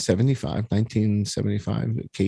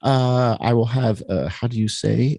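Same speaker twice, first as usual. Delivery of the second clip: halting fake French accent ordering food; pretentious diner ordering in a mock French accent. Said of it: "use a French accent to order".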